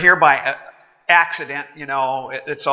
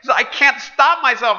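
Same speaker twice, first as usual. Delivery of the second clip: higher, apologetic pleading voice; sheepish customer; 6 semitones higher than usual. Acted. Customer excusing himself to the waiter, meek apologetic. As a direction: apologize sheepishly, a bit pitched up.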